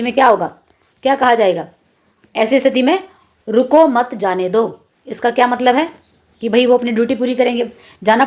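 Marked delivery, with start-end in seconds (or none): 3.5-4.8 slow, measured "रुको मत, जाने दो"; group रुको with मत, then "जाने दो"; comma after मत. Shown as a demonstration. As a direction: spell out the phrasing slowly, "जाने दो" as its own unit. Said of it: "जाने दिया जाना चाहिए".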